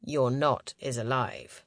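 low, slow man's voice; grave male leader. A narrator's reading. Leader telling Romy the news, low and slow.

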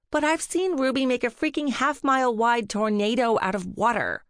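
a touch of flustered protest; sputtering. A narrator's reading. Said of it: "Allegra sputtered".

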